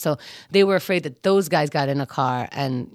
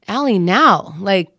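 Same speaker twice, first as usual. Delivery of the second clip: urgent yell; 3 semitones higher, 6 dB louder than usual. Retold or imitated. Yelling at friend to hurry.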